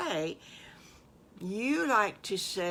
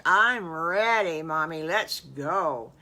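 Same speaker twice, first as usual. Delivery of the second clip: eager; 8 dB louder than usual. Acted. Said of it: "and Squiggly says".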